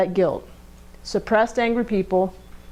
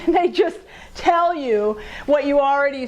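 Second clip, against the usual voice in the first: animated; 5 semitones higher than usual. Acted.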